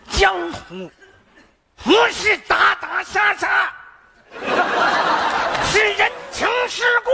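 slow, high, grand warlord delivery; Li Xuejian impression. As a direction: draw out each phrase like an old marshal. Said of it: "李雪健老师演大帅，人家自己说".

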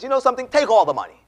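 high, loud retold outburst; excited generosity. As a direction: blurt it out like an excited donor. Acted man impulsively giving money.

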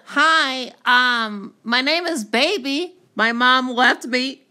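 soft, lightly voiced baby monster. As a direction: coo it like a lonely little baby. Toy monster plays a baby.

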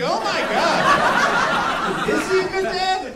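high, loud and very slow, drawn out; stunned disbelief. Real, not acted. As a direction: let the shock stretch every word. Narrator reacts in disbelief.

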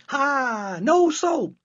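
high, loud catching-out cry; triumphant gotcha. Acted. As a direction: pounce on the lie. Mother catches the lie.

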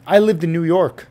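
lightly mimicked girl bragging; a hint of her voice, parroting her boast; imitating her. Retelling the club girl's brag to viewers, lightly mimicked. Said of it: "This is how she said it".

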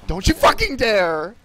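yelled high and loud in panic; furious shout. Real, not acted. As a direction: scream it as a warning. Teammate about to die.

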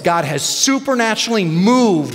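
emphatic preacher's declaration of faith; retold indignant rebuke, punching key words. Pastor retelling his defiant answer to the agent, indignant. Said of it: "out of my belly came this, like, this indignant".

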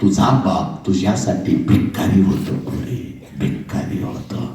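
whispered भिकारी होतो; hushed fade. Acted. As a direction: let it die away into a breath. Climax sinks to hush.

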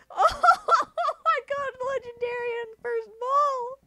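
high laughing disbelief. Real, not acted. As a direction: laugh through the words. Catches the wanted Pokemon.

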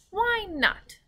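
lightly acted high girl's voice; curious little girl. A narrator's reading. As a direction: pipe it up high as Sophie. Voicing Sophie's curious question.

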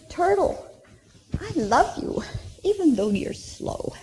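high, sweet, singsong dove. Acted. Dove voiced in story.

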